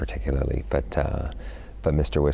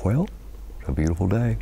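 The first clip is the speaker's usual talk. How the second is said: dim Southern gentleman; 4 semitones higher than usual. Retold or imitated. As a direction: play a dim-witted Southern gent admiring the day. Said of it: "talks sort of like this".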